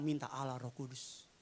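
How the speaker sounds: soft, low murmured plea; gentle prayer. Shown as a demonstration. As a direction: ask God gently for a spouse. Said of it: "Pelan-pelan".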